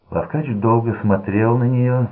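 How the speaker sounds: plain reading voice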